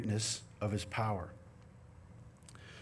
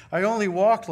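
laughing; 9 semitones higher, 10 dB louder than usual. Real, not acted. Laughing at his own weakness.

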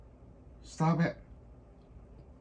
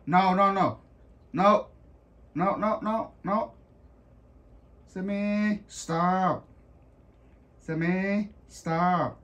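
firm scolding; 5 dB louder than usual. Real, not acted. Scolding dog, louder.

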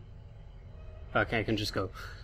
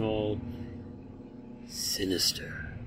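soft, lower, slow breathy word; spooky hush; 6 semitones lower, 8 dB quieter, slower than usual. Real, not acted. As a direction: lean into the creepy word quietly. Describing a creepy figure.

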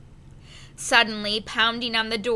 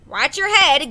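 louder gruff grunt; 5 semitones higher, 8 dB louder than usual. A narrator's reading. First mate grunts a warning to the boy, gruff. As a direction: grunt it, unimpressed. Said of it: "grunted the mate".

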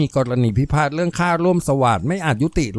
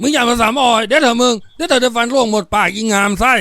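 raised, high-pitched bullying shout; angry threat; 9 semitones higher, 4 dB louder than usual. Acted. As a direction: threaten loudly to shut someone up. Man threatens crying woman. (ตวาดขู่เสียงดัง)

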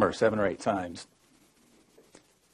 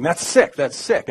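mild mock yell, higher on the first hit; retold yelling; 6 semitones higher, slower than usual. Guard scolds an inmate over his remark, mild retold yell. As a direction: imitate an outraged shout without full volume. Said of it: "he starts yelling at me".

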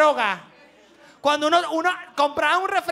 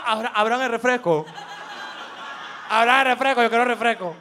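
put-on eager kid; 4 semitones lower than usual. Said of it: "uno estaba esperando".

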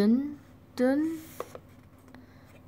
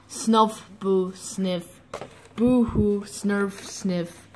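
spoken sniffles and boo-hoos, fading softer; mock crying; 2 semitones lower, 4 dB quieter, much slower than usual. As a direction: recite the sobs in a small pitiful way. Chicks sob after being rebuffed.

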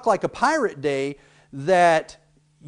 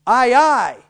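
pirate aye aye; 6 semitones higher, 8 dB louder than usual. Shown as a demonstration. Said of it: "the next one is".

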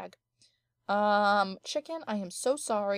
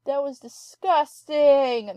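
louder, higher and slowed, real disgust; disgusted outburst; 5 semitones higher, 10 dB louder, slower than usual. Real, not acted. Cat sneezes right beside her, loud disgusted cry.

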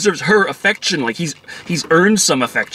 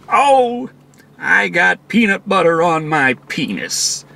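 mock whiny father; slower than usual. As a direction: ham up the clumsy dad's whine. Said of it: "and he's there".

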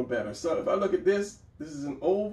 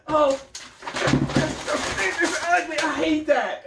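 high, loud, exasperated cry of a frustrated beginner; hammed-up disgust at a failed sketch; mock frustrated outburst; 12 semitones higher, 5 dB louder, slower than usual. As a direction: throw up your hands at your own ugly drawing. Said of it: "and they say".

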